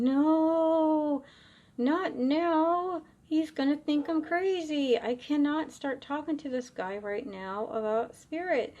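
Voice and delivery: high, urgent pleading under her breath; retold inner panic. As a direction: beg the spirit to go away, rattled.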